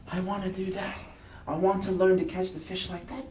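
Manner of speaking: lightly voiced, determined youngster; insistent boy. Boy pleading with grandfather to learn fishing, insistent.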